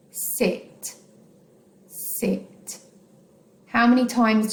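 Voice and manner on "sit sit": whispering the word sit to feel the chin drop; softly voiced model word for counting syllables; whispered demo. Shown as a demonstration. Teacher whispers the word for pupils. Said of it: "putting your hand just under your chin".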